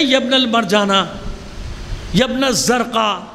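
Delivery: each name drawn out slowly and with scorn; slow scornful naming. Shown as a demonstration. The Imam naming an enemy by his mother, slowly and with disdain. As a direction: lay out the insulting names slowly. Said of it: "جیسے معصوم کہتا ہے".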